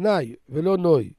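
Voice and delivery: "נאי" with open a, then "נוי" with Ashkenazi oy; contrasting vowels. Shown as a demonstration. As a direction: set "נאי" against "נוי". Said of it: "שאשכנזים זה נוי".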